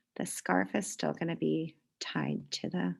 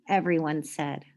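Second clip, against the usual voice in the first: lively storybook read-aloud; reading to children; 3 dB louder, slower than usual. A narrator's reading. Teacher reading a picture book to the class, lively. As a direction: read it like story time for kids.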